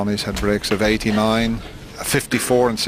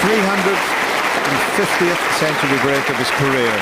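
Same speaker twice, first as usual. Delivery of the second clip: raised, higher call of the moment; excited commentary; 8 semitones higher, 4 dB louder than usual. Real, not acted. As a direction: lift it for the big moment. Celebrating century, excited call.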